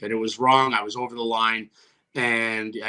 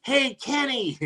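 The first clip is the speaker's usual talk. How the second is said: retold yell; 10 semitones higher, slower than usual. Player hollering to an opponent from the bench, mock yell. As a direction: call out high, imitating a yell. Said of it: "I just remembered yelling".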